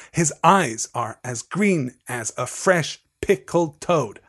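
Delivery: slow scansion with beats on "eyes", "green", "fresh"; metrical stress. Shown as a demonstration. Teacher showing the rhythm of the poem, slow stressed "eyes", "green", "toad". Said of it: "we see there the rhythm of emphasis and de-emphasis".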